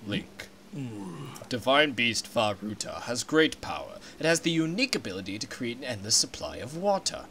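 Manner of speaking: a deep and solemn giant fish king; stately Zora king. Acted. King explains the danger.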